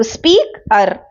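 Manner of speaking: स्पीकर split as स्पीक, then अर; syllable by syllable. Shown as a demonstration. Teacher counting two syllables, स्पीकर broken in two. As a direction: pause inside स्पीकर to show two parts. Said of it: "दो syllable".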